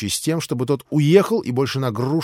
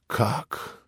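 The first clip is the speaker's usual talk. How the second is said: a mild hysterical gasp, slowed; stunned disbelief rising; understated hysterics; hysterical cry; 2 semitones higher, slower than usual. Acted. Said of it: "истерически вскричала Грушенька".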